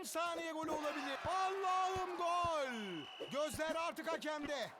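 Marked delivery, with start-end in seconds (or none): 1.3-2.7 very slow stretched goal cry; screaming football commentator. Acted. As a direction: drag the goal call out. Last-second goal call.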